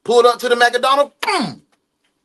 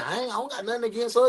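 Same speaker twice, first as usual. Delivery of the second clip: mocking voice; 9 dB quieter, much faster than usual. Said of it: "When they say".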